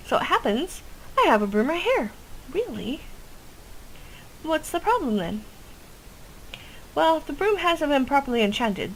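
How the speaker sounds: eager witch; chirpy witch voice. Acted. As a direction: sell the plan like an eager witch. Witch NPC, higher pitch.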